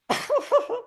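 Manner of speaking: high mock laugh. Acting out her reaction to reproof.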